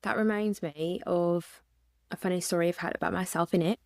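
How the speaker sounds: attempted British accent. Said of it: "let me try to put on an accent".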